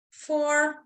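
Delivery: "four" sustained high, as the lungs fill; rising breath count. Real, not acted. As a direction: count held high on the inhale.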